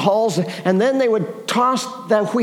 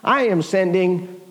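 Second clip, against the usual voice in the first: slow, low, solemn command with weighty pauses; the Lord; 5 semitones lower, slower than usual. Acted. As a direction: pronounce it as a divine commission, leaning on each "you". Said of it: "It's the Lord Almighty that responds".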